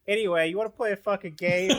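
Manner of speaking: high strange alien voice; alien Gargalax. Acted. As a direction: play the alien dad greeting. Alien dad voice.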